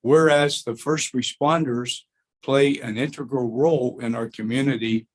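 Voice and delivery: measured formal read of a board resolution. Acted. Board member reading the resolution aloud, formal read. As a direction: read it out like an official proclamation.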